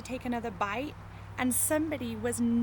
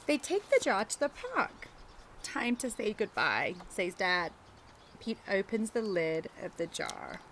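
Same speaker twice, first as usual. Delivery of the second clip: put-on reading to children. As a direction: read it gently to little kids, taking your time. Reading picture book to children.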